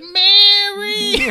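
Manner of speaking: high, loud mock call for Mary; half-laughing yell for help. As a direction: call out across the house. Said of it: "He's like".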